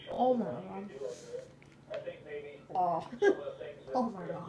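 speaking with sour candy in mouth; reacting to sour taste; mouth full of powder. Real, not acted. Seen 0: Poured candy powder in just before; red-stained open mouth, grimacing while speaking.

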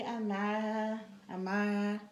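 put-on drawn-out try at a Latin accent; name in a tentative Latin accent; attempted Latin accent. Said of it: "say her name in that Latin accent".

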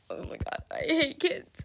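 breathy whispered complaint to the camera; whispered aside. Real, not acted. Streamer whispering a complaint to viewers. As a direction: whisper it like a secret.

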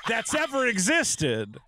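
slow, drawn-out sarcastic insistence; mock indignant denial. Commenter insisting he is not mad, drawn out and sarcastic. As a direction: ham up a furious man swearing he's calm. Mocking an angry online commenter.

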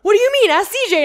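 high, loud exasperated retort; yelling back. Retold or imitated. Bystander sending the athlete to the judge, mock yelling. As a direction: imitate someone shouting back baffled.

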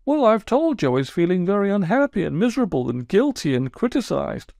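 sulky, wounded toad telling his woes; aggrieved Toad. Acted. Toad voiced by narrator.

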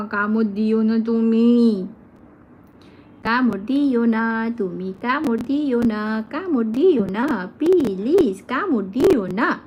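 slow repeated pleading not to bite; slow sing-song plea. Real, not acted. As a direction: beg gently, drawn out.

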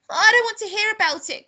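put-on high, loud boy's protest; crying out. A narrator's reading. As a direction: cry it out as a horrified child. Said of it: "cried George".

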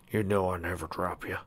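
soft, slightly wounded protest; almost hurt. A narrator's reading. Husband assuring wife he never drops her, almost hurt. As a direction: protest quietly, a touch hurt. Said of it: "a tone that almost seemed hurt".

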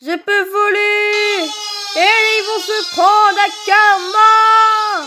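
slow, loud gleeful cry; triumphant shout. Real, not acted.

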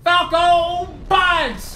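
drawn-out attack-name shout; loud, high, stretched-out battle cry. Pretend. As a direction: bellow the special move as you strike. Calls out attack move name.

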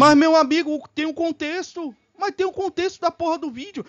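loud, high outburst easing in volume; exasperated rebuttal. Real, not acted. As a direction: burst in to argue, pitch up. Heated rebuttal to the played video.

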